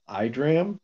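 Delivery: IDRAM said with an "eye" opening; trying a pronunciation. Shown as a demonstration. Recapper unsure of a gate's name, trying a pronunciation. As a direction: try IDRAM starting like "eye". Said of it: "Really hard to say".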